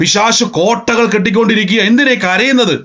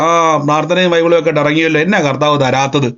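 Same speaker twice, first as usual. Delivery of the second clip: taunting rival; 4 semitones lower than usual. Retold or imitated. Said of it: "പ്രതിയോഗി പറയും".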